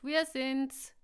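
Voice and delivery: loud, high, drawn-out calls; calling out. A narrator's reading. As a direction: shout to your friends across a distance. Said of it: "rief Emma".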